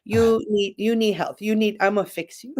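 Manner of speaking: light imitation of a Chinese accent in broken English. Chinese friend offering to come fix her, light Chinese accent. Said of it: "I love her accent".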